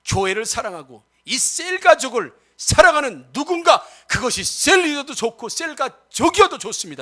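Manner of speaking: forceful sermon with punched key words; emphatic pulpit exhortation; impassioned preaching. Real, not acted. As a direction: preach it out with drive, stretching key phrases. Preaches to the congregation.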